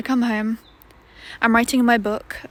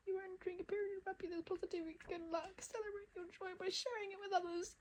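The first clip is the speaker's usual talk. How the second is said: higher, fast sing-song reading; mock cheerful; 7 semitones higher, 13 dB quieter, faster than usual. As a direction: read it like a chirpy greeting card. Reads happy card in put-on voice.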